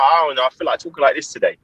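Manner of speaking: breezy put-on English accent. Runner replying to puzzled teammates, English accent. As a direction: answer casually in an English accent. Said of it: "I'm talking like this".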